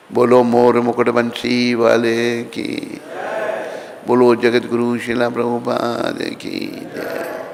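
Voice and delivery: slow, drawn-out chant of praise; devotional call. Real, not acted. Preacher leading the closing jai call to the congregation, slow and drawn out. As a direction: call the congregation to cheer, stretching each word.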